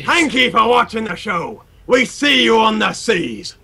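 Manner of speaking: lightly voiced pirate sign-off; a hint of a pirate. Host thanking viewers for watching, light pirate voice. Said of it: "in your best pirate voice".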